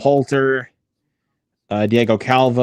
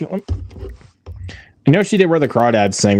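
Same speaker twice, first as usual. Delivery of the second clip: whisper; 3 semitones higher, much slower than usual. Real, not acted. Unvoiced aside naming a film.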